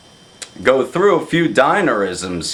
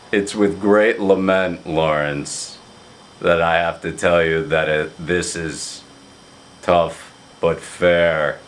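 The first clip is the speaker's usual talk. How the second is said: Craig's low voice; 5 semitones lower than usual. Retold or imitated. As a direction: lightly imitate a grave friend delivering bad news. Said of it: "he has a very low voice".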